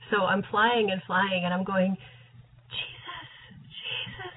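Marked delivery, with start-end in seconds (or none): 2.7-4.3 calling out. Retold or imitated. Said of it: "I'm just, like, yelling out his name".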